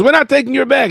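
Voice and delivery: put-on high, loud echo in Mexican accent; mocking Mexican accent. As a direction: kid parroting the workers, Mexican accent. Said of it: "He goes".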